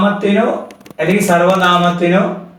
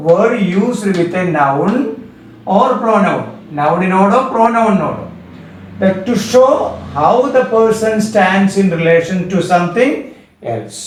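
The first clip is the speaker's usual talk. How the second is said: slow dictation; much slower than usual. Shown as a demonstration. Teacher repeats definition slowly.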